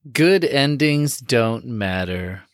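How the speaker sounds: slow, dry sarcastic delivery. Acted. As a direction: say it with heavy sarcasm. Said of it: "he said with sarcasm".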